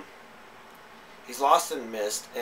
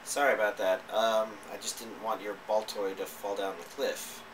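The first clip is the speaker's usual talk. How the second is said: lightly imitated calm, slightly lower voice; mild retold calm; calm apology; 3 semitones lower than usual. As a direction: apologize evenly, as if quoting someone unruffled. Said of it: "he's actually very calmly saying".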